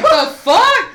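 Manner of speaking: high, loud laughing the fuck; laughing disbelief. Retold or imitated. Teen seeing the airport, high laughing disbelief. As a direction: squeal it through a laugh. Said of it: "And I'm like".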